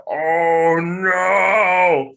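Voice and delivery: high, loud mock alarm; alarmed oh no when blood appears; retold alarm. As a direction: cry out in remembered panic.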